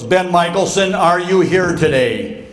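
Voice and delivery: lightly voiced professor pressing for an answer; insistent professor. Professor calls on the hiding student, insistent retold roll call. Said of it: "And he goes".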